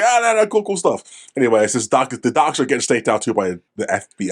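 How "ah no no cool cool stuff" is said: mock meth heads. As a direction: ham up the silly parkour guys. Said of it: "making noise".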